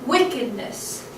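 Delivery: "wickedness" with "wick" lifted, the rest falling; WICK-ed-ness, a falling dactyl; stress on first syllable. Shown as a demonstration. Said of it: "So that's stressed".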